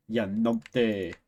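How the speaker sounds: slow, drawn-out Scottish accent; enunciated Scottish. Shown as a demonstration. Streamer showing off a Scottish word, drawn-out Scottish accent. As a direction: lean lightly into a Scottish accent, stretching it. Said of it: "enunciating my Scottish accent a bit".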